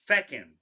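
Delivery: "feckin'" said loud with a dropped g, Irish style. Shown as a demonstration. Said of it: "because that's how they say "fuck" in Ireland".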